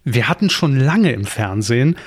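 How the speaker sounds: cheesy ad lead-in, rising excitement; chipper 1950s ad. Pretend. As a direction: sell it like a teleshopping host. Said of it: "immer wenn ich so anfange". (überdrehte Werbeansage)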